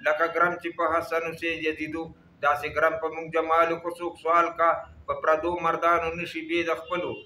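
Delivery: measured, cadenced verse reading; poem recitation. Acted. Reciting Hamid Baba's verse for listeners, poem recitation. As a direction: recite the couplets with rhythmic line endings.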